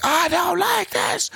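put-on high, slow childish wail; screaming kid. Boy on the plane screaming in English, high drawn-out wail. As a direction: mimic a bratty kid yelling in English. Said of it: "han bare skrek".

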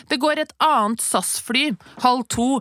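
lightly mocking desk clerk; counter clerk. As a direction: deliver it like a smug clerk. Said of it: "de sa i skranken sånn".

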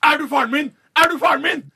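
put-on high, loud baby shriek; high screechy baby voice; screaming newborn. A narrator's reading. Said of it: "og skriker".

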